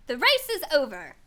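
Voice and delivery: loud announcing call; the Dodo announcing to the racers, loud. Acted. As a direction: shout it out to the whole field.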